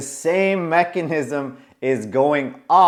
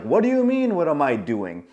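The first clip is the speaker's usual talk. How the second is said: puzzled friend. Retold or imitated. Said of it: "looking at me for an answer".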